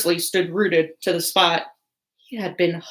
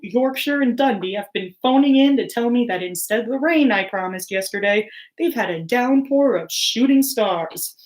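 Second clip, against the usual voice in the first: lightly voiced cheery weatherman; weather report. Weatherman telling viewers about shooting stars, breezy forecast read.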